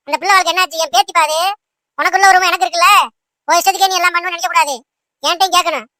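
put-on rapid, scolding old mother berating her son; nagging scold. Old mother nagging her son over the marriage, rapid scolding. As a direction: nag him without pause.

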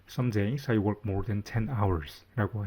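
very slow, clear example; slow example read. Shown as a demonstration. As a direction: read out slowly, word by word. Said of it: "이걸 영어로 하면".

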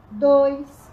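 loud, punchy rep count; shouted count. Real, not acted. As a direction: bark the number to push them.

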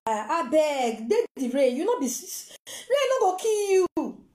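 mock-tearful begging, rising into a drawn-out wail; crying plea. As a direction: plead through imitated crying, stretching the last words. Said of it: "She dey cry".

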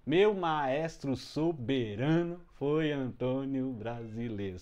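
very slow, each syllable weighted; slow metric recital. Shown as a demonstration. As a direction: scan the verses to their beat. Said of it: "já dá pra cantar".

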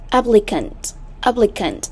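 "Applicant" modelled carefully, AP-pli-cant; first-syllable stress. Shown as a demonstration. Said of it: "âm thứ nhất".

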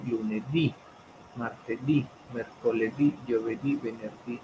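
"Lunedì, martedì, mercoledì, giovedì, venerdì" listed with weight on each final DÌ; stress on final syllables. Shown as a demonstration. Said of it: "lleva acento".

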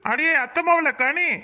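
slow sing-song call toward the house. Acted. Cousin calls her out from outside.

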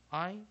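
'I' as a long, drawn-out 'eye'; long vowel. Shown as a demonstration. Teacher demonstrating the long vowel, 'I' drawn out. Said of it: "它I会念成长母音".

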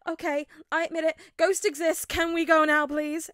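high, loud, shaky gasp; gasped, shaking. A narrator's reading. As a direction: plead while frightened. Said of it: "M J gasped out, voice shaking".

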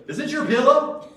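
high, loud, eager question; thrilled high call; excited. Retold or imitated. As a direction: burst out with delighted disbelief. Excited question about found pillow.

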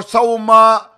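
loud sharp call; screaming football commentator. Real, not acted. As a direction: bark the word out to the pitch. Live match call.

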